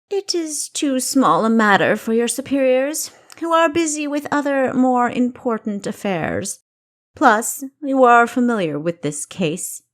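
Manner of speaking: a king laying out orders from on high; commanding king. Acted.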